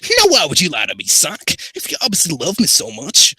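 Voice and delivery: high, loud, hurried challenge; Shadow character voice. Acted.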